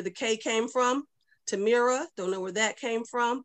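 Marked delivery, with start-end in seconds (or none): 1.5-2.1 Tamira with an added R; wrong name, Tamira ending in "ruh"; mispronounced name. Shown as a demonstration. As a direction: say Tamira as tuh-MEER-uh. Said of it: "my name has been mispronounced".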